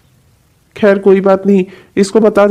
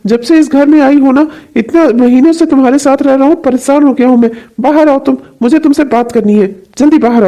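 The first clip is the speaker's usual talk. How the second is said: raised pitch, irritated summons; angry calling out; 3 semitones higher than usual. Acted. Husband summons Priyanka out to face his questions, angry calling out. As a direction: call out sharply, demanding an answer. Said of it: "क्यों चिल्ला रहे हैं आप मुझ पे".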